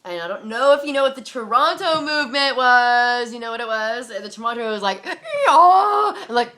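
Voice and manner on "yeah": very high, loud mock wail; hammed-up ecstatic yowl; frenzied wail. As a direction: squeal out a mocking revival cry. Mimics frenzied Toronto movement worshippers.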